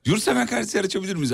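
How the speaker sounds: laughing through the line; trying to stay straight but laughing. Shown as a demonstration. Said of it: "Bir daha cümleyi bir daha söylesen".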